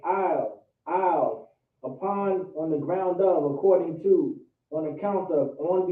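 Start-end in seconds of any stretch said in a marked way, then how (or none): 0.0-1.5 "isle" said plainly, twice, falling each time; pronunciation demo. Shown as a demonstration. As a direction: model "isle" for learners to copy. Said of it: "This is how you say it".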